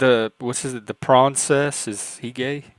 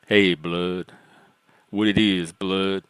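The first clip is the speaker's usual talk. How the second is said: low, put-on tough street voice; lightly voiced cool guy greeting; deep alpha voice; 3 semitones lower, slower than usual. Shown as a demonstration. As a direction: drop into a mock deep alpha voice. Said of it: "when I do my deep alpha voice".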